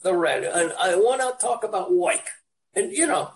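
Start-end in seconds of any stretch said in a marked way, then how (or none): 0.0-0.5 "radio" said as "raddio", with a short A; New York pronunciation. Shown as a demonstration. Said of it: "That's how you pronounce it". 0.5-2.3 imitated New York politician accent; lightly acted New York accent; thick New York accent. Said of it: "he had an incredibly thick accent".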